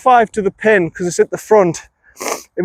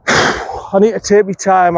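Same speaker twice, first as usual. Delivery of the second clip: out of breath; slower than usual. Real, not acted. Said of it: "I kind of put when I'm out of breath".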